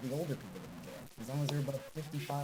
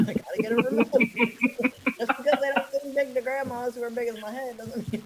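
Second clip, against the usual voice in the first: loud, high, laughing protest; talking through laughter; 10 semitones higher, 10 dB louder than usual. Real, not acted. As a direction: push the words out over real laughs. Laughing while joking about family.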